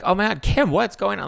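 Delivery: mock freak-out on the phone; Kris freaking out. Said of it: "Kris is freaking out".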